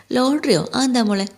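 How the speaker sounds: surprised father, a touch puzzled; surprised question. Acted. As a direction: catch him off guard with the news. Father hears daughter mention lottery.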